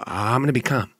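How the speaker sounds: low, controlled promise to stay calm; forced calm. Retold or imitated. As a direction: keep it low and measured, trying to be calm.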